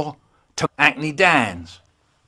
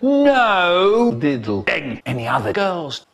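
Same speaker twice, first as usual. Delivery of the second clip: stern mum; 3 semitones higher, slower than usual. Retold or imitated. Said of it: "Mum said".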